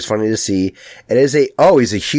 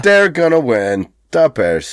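Chicago superfan voice, drawn out; sports-fan swagger in a Chicago accent; 3 semitones higher, slower than usual. Retold or imitated. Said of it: "Chicago has this accent".

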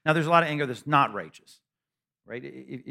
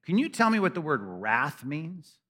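put-on snarky young preacher; 3 semitones higher than usual. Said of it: "And I said".

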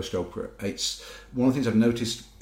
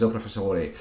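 bad Italian accent. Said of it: "I'm gonna do a very bad Italian accent now".

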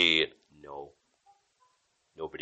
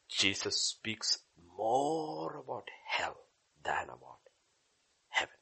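slow whisper; 4 dB quieter, slower than usual. Real, not acted. Whispered emphasis in sermon.

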